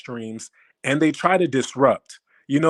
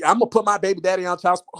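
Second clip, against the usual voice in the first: mock imitation of someone; 3 semitones higher, much faster than usual. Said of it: "Who does that sound like".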